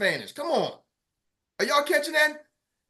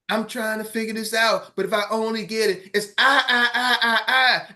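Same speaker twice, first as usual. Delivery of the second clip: selfish agent voice; 2 semitones lower than usual. Retold or imitated. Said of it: "your me role".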